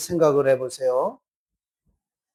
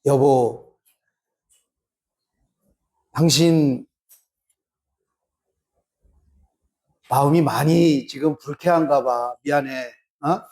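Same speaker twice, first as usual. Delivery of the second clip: tender apology to spouse, lower and softer; soft and gentle; 6 semitones lower than usual. Retold or imitated. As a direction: soothe an upset spouse gently. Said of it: "이렇게 부드럽게". (아내에게 부드럽게 달래며 사과하기)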